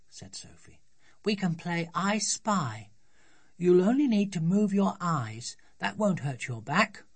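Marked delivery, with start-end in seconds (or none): 1.2-7.0 put-on higher-pitched child's voice, coaxing; helpful little girl. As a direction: persuade Dad like an eager small daughter. Voices Sophie coaxing father.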